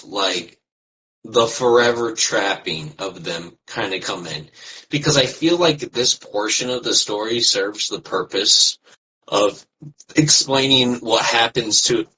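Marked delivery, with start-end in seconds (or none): 4.9-12.1 talking through hiccups; hiccuping mid-sentence. Real, not acted. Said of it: "I have the hiccups".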